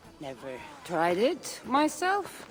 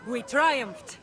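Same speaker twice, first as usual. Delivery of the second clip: a lively toast recited in verse; rhymed wedding toast; 3 semitones higher than usual. Acted. Guest toasting the bride and groom, a lively recited verse. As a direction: raise the glass and deliver the rhyme. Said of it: "Please, regale us with your tale".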